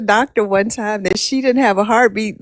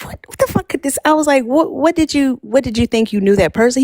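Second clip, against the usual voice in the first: baffled disbelief; 5 semitones higher than usual. Retold or imitated. Mother baffled by son.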